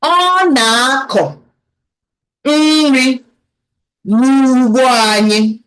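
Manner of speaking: drawn-out words, broken up by pauses; slow demonstration. Shown as a demonstration. Teacher has learners repeat the Igbo line, slowly. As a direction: say it piece by piece, very slowly. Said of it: "I'll say it slowly again".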